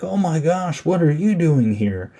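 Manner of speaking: high-pitched mock delight; all happy. Retelling Father Stewart seeing the girl he likes, mock happy. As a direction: imitate someone thrilled by a surprise meeting. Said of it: "he gets all happy".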